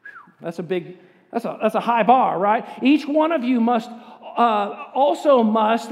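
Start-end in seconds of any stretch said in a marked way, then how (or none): 2.8-5.9 raised voice, leading the crowd; loud group read. Shown as a demonstration. Pastor leads the congregation reading the verse together. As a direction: read it out for all to follow. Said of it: "let's say it together".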